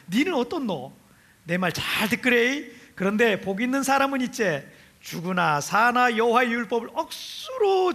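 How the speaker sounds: a light, lightly done Gyeongsang dialect reading. Acted. Pastor reads Psalm 1 to the congregation in Gyeongsang dialect. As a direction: read the psalm as a Gyeongsang local would, half laughing. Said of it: "경상도 사람이 얘기한다 생각하고 들으세요".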